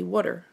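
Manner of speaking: "water" said wudder; "water" with the Baltimore vowel, wudder. Shown as a demonstration. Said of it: "like W U D D E R comes out like water".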